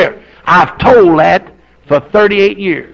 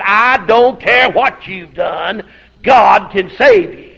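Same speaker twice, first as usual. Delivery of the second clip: slow and louder, every word hit; slow, loud insistence on "God can save you"; emphatic; 3 dB louder, much slower than usual. Retold or imitated. Preacher pleading with murderer.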